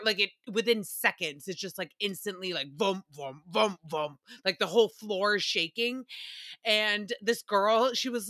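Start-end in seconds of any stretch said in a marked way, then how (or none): 2.8-4.2 low "vum" stomps; low, thudding mock stomps; imitated marching thuds. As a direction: mimic heavy footsteps with a low voice. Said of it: "security guy just starts marching over".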